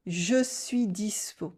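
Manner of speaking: "Je suis dispo" langsam geflüstert; whisper. Shown as a demonstration. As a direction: hauch es stimmlos. Whispered demo.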